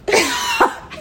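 giggling through words; dissolving into laughter; laughing. Real, not acted. Laughing hard.

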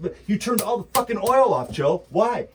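loud, high angry accusation; furious rant. Real, not acted. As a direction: yell it at Joe. Ranting at Biden.

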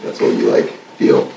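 mellow and spaced out, low-key; stoner. Real, not acted. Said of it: "I'm high every day".

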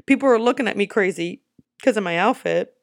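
fast, loud, frantic panicking self; retold panic. Lost tourist in Paris to herself, frantic panic. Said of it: "And I'm like".

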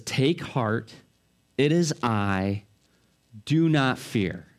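slow, low, steady comfort; calm reassurance. Acted. Jesus calms disciples frightened in the boat. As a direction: soothe the terrified men. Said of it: "Jesus' voice rings out".

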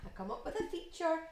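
mock complaint. Real, not acted. Complaining feature was stolen.

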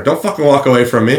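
mild mock yell at someone leaving; retold yelling. Homeless man yells after Hunter as he leaves, mild retold yell. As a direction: raise the voice a little, as if calling after him. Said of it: "he's yelling at Hunter".

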